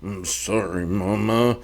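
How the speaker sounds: a hint of a contrite son; sheepish apology. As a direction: hang your head and mumble sorry.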